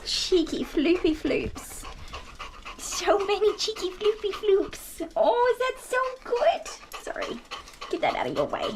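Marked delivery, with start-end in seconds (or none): 0.0-7.0 high, slow cooing. Real, not acted. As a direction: croon to the bulldog in a squeaky voice. Baby talk to new bulldog.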